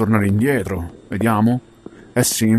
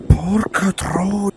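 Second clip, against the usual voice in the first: explosive italian cursing; 7 semitones higher, much slower than usual. Real, not acted. Cursing at failure.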